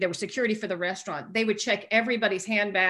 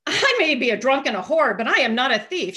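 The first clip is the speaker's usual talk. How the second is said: indignant retort, pitched up and louder; 4 semitones higher, 5 dB louder than usual. Retold or imitated. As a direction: protest with wounded pride. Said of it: "I got really indignant".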